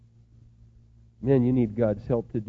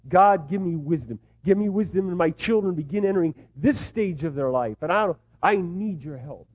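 raised, pleading prayer; praying out loud; 3 semitones higher, 4 dB louder than usual. Retold or imitated. Father praying aloud on an empty gravel road, pleading. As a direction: call out to God, a little louder and higher. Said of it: "I talk out loud".

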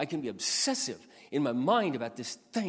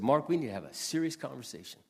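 God speaking. Retold or imitated. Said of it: "He said".

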